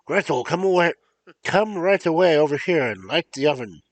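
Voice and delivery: loud, high calling witch. Acted. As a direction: shout across the house like a witch. Witch calls Gretel loudly.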